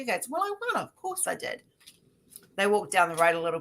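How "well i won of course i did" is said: mock boast. Acted Superman boasting in joke.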